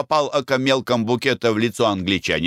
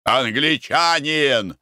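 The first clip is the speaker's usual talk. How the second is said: calling out; 4 semitones higher, much slower than usual. Acted. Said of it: "крикнул Николай Иванович".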